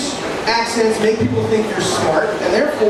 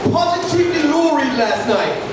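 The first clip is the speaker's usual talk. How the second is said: put-on English accent; 4 semitones higher, slower than usual. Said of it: "it doesn't work in other accents".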